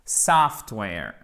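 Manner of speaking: "Software" with stress on "Soft" and a long vowel. Shown as a demonstration. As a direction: lean on "Soft" in "Software", then drop. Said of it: "une voyelle longue et un accent tonique".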